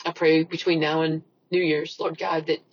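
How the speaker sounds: soft, subdued personal prayer. Real, not acted. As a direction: pray quietly and earnestly to God. Leads a closing prayer.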